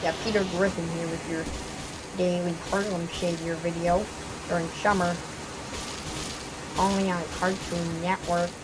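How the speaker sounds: lightly voiced cartoon-dad announcer; a loose impression reading a mock TV promo; Peter Griffin. Gamer improvising a summer video promo, light Peter Griffin impression. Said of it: "Why am I speaking in a Peter Griffin accent".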